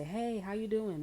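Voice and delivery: high, slow, loud sing-song hello; a hammed-up nosy friend greeting. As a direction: chirp it out slowly, overly friendly. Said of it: "they wanna say".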